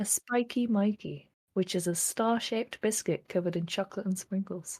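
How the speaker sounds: gentle, murmured ASMR-style voice. Speaker explaining a biscuit to the others, in an ASMR-style voice. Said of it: "did you purposely drop into an A S M R style voice".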